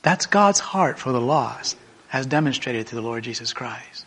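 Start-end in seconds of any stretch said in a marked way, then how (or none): 2.1-4.1 reverent whisper. Real, not acted. Reverent aside after sermon point.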